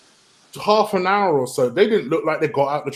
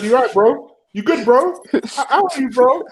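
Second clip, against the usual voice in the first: mock concern; 7 semitones higher than usual. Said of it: "And I said".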